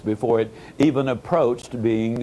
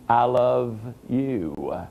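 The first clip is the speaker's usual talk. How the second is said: hushed heartfelt declaration; tender I love you; 3 semitones lower, much slower than usual. Retold or imitated. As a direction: say it like words she longed to hear. Quoting words never heard.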